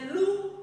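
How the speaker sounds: "louve" split into held "lou" and separate "ve"; teacher sounding out "louve" with a gap inside; syllable by syllable. Shown as a demonstration. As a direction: read "louve" in two clear beats. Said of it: "on le lit syllabe par syllabe".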